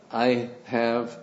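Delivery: put-on slow, deliberate German accent. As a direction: quote the old preacher in a German accent. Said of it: "in a German accent".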